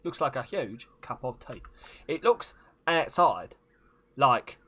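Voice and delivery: emphatic, halting celebrity impression; hammed-up film-star voice; Michael Caine. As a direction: deliver it in loud, separate chunks. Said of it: "Do a Michael Caine impression".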